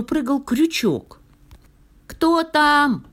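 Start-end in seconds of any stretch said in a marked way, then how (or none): 2.1-3.1 very high, loud squeaky question; tiny high donkey voice; thin little voice. A narrator's reading. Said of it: "тоненько спросил ослик".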